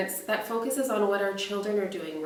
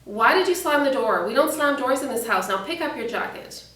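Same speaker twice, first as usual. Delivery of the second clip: louder, mildly acted parental telling-off; raised-voice scolding; 5 dB louder than usual. Parent to child who slammed the door, raised-voice scolding. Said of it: "raise your voice".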